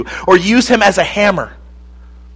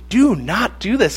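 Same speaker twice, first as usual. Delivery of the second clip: strict; 4 semitones higher, 4 dB quieter than usual. Retold or imitated. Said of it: "The parents said to him strictly".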